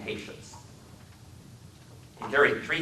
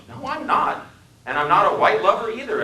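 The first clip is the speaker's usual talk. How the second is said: sharp retort; 12 semitones higher, 8 dB louder than usual. Acted.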